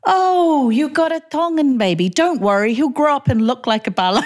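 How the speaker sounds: high, far put-on voice of a condescending relative; sing-song mock of a patronising aunt. Mother retelling a relative's remark, mocking high voice. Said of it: "hobby relatives going".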